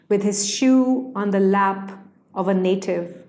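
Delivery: measured poem recital, phrase by phrase with pauses; poetry reading. Acted. Poet reciting own poem to listeners, measured poetry reading. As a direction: read it as verse, letting each image stand.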